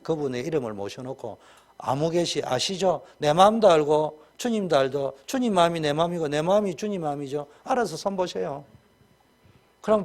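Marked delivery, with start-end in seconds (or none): 1.8-8.6 mock prayer. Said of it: "매일 정식기도 때마다".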